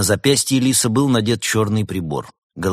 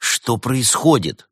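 slow, raised, insistent question; demanding; 6 semitones higher, 4 dB louder, slower than usual. A narrator's reading. Артём demanding an explanation from his friends, insistent. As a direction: demand an answer, drawing it out. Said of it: "требовательно спросил Артём".

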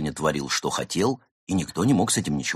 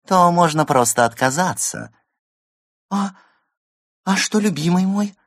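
stagey forest spirit; 5 semitones higher, 3 dB louder than usual. Acted. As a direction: lure her in gently. Hare persuades Laura on stage.

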